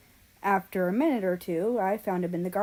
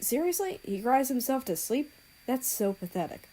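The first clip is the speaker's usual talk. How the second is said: scornful mutter; 6 semitones higher than usual. A narrator's reading. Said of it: "muttered the Korean".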